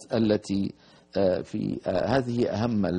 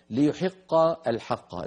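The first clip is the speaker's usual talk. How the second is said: تلاوة مجوّدة; 2 semitones higher than usual. Shown as a demonstration. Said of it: "الآية الثامنة".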